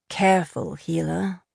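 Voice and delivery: a hint of cold control; man warning a rival coolly; icy calm. A narrator's reading. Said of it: "Karn said with icy calm".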